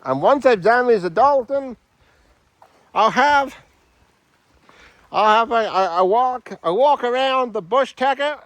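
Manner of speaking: a light, jokey Australian voice; Australian accent. Acted. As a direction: play a comic Aussie bushman. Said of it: "I am Australian".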